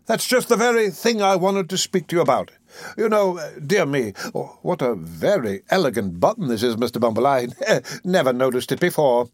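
an oily undertaker angling for profit; fawning undertaker. Acted. Undertaker flatters the beadle.

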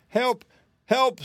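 very high, loud cries for help; screaming. A narrator's reading. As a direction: scream out in panic. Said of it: "screamed the man".

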